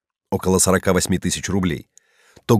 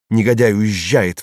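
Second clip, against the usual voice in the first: sputtering foiled villain. Acted. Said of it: "вскрикнул он".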